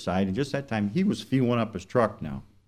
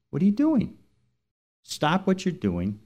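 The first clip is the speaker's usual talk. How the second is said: a small voice in his head, pitched way up; little inner voice; 9 semitones higher than usual. Retold or imitated. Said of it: "Like a little voice says to me".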